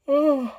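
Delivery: loud, high yawning "oh"; yawning sigh. Real, not acted. Vlogger overtaken by a yawn mid-story, yawning loudly. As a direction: let a real yawn out aloud. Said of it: "excuse me".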